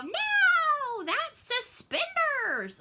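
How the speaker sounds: put-on high, loud kid voice insisting; a child's indignant high-pitched no; daughter's protest. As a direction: squeal it like a kid correcting the grownups. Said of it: "you hear my daughter in the backseat go".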